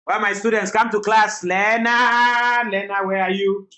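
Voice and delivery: loud calling across the room. Real, not acted. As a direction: call the students to class. Teacher calling child to class.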